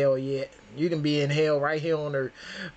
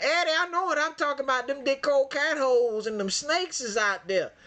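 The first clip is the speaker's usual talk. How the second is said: higher, faster mock insistent lady; imitating the lady; 7 semitones higher than usual. Mimicking the preacher lady defending herself, higher mock voice. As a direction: play her insisting she's right. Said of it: "She's like".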